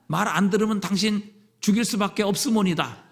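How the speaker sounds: mock Japanese accent in Korean, halting; broken Japanese-accented Korean. Preacher mimics a foreign captor, in a mock Japanese accent. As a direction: stumble through it like a Japanese speaker of Korean. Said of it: "뭐 이렇게".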